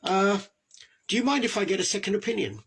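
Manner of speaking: polite challenge. Pretend. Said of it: "Say to a doctor".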